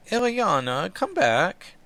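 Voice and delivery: put-on a poor Scottish accent, pleading; hammed-up Scottish accent, calling her back; bad Scottish accent. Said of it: "It's a horrible Scottish accent".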